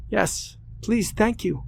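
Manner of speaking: put-on high, rushed girl's voice, words tumbling together; hurried, relieved thanks; all at once. A narrator's reading. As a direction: blurt it all in one breath. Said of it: "she said almost all at once".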